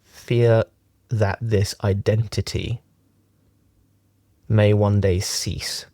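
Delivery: measured meditation teaching with long pauses; unhurried, leaving long silences between phrases; guided meditation. Acted. Teacher talks friends through a closed-eye meditation, guided meditation.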